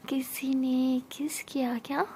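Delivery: slow, hushed mock wonder; coy teasing. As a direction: draw it out softly, pretending not to know. Siya teases after the kiss. (धीमे से छेड़ते हुए)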